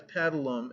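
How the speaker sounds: "paddlum", paddle with um tacked on the end; added um syllable. A narrator's reading. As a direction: tack um onto paddle, "paddlum". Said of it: "added the syllable um to his words".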